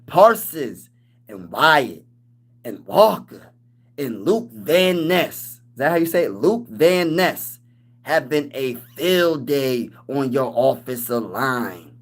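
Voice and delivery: slow, drawn-out imitation of the chatter; mock fan voice. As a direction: read the comment slowly in a put-on voice. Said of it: "say it in his voice".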